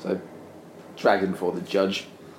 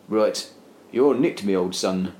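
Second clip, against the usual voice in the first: cocky copper; 3 dB louder, slower than usual. Acted. Policeman arrests the man.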